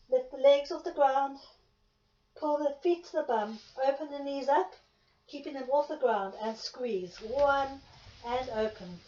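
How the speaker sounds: loud, punchy count-off; barking gym coach. Real, not acted. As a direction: bark the cues out to the class. Instructor counts reps to class.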